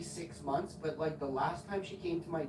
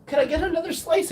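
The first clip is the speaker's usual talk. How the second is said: high mock polite request; 12 semitones higher, 12 dB louder than usual. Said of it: "I'm like".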